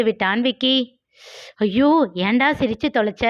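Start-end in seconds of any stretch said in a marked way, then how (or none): 1.6-3.2 near wail. Acted. Senthil wails at Vicky for laughing, panicked. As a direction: cry out in dismay at his friend. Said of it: "கிட்டத்தட்ட கதறினான் செந்தில்".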